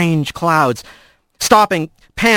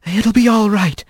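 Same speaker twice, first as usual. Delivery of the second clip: murmured comfort; 4 semitones higher than usual. Acted. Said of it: "Alphonse murmured".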